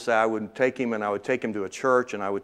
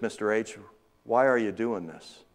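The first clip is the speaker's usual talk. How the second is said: softer, hushed Mister H, said with quiet sincerity; soft heartfelt plea; 2 semitones lower, 6 dB quieter than usual. Retold or imitated. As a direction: ask gently like a grateful boy. Adam's soft heartfelt question.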